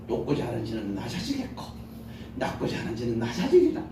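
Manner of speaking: soft start rising to a smiling finish, like reciting a poem; poetic recitation. Shown as a demonstration. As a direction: recite it stylishly like poetry. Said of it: "멋있게 시를 낭송하듯이". (시를 낭송하듯 멋있게)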